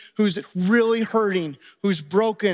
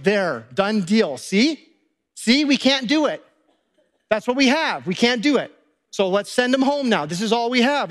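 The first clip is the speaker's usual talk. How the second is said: case-closed disciples. Acted. Disciples showing Jesus their meagre food, insistent. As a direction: press the point as if it's settled. Disciples triumphantly proving it's impossible.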